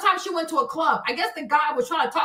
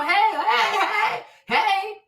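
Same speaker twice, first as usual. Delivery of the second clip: chirpy greeting; 5 semitones higher, much slower than usual. Retold or imitated. Friendly greeting to passers-by.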